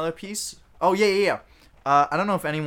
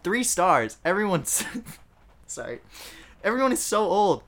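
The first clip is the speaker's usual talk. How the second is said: mock Southern reviewer; 4 semitones higher, 6 dB louder than usual. Reads review aloud in voice.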